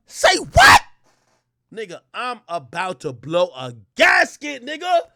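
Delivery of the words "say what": very high, loud disbelief; shocked say what. Retold or imitated. Narrator reacting in disbelief to what he saw. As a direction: squeal it in shock.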